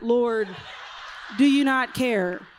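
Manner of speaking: indignant, head-wobbling "Lord, do you not care"; sassy with head wobble. Retold or imitated. Martha sassing Jesus about her sister, head wobbling. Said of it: "there was a head wobble in that".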